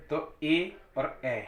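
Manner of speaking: ए and ऐ said very slowly; slow contrast. Shown as a demonstration. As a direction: draw out each vowel to compare. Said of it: "ए की sound आएगी". (ए और ऐ बहुत धीरे-धीरे)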